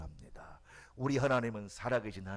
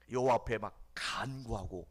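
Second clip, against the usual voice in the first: ordinary talk, nothing marked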